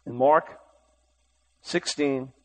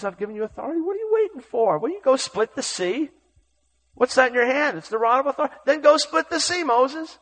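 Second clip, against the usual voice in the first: God pushing Moses to act now; God commanding; 9 semitones higher than usual. Acted. God urging Moses at the Red Sea, commanding.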